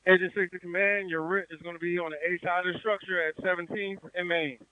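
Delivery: urgent firefighter radio. Real, not acted. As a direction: push it out urgently over the radio. Crew member calling command.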